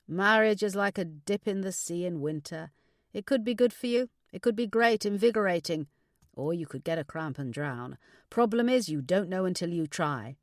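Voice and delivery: a hint of a philosophical dad; advising father. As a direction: dispense fatherly wisdom with some force. Father gives advice.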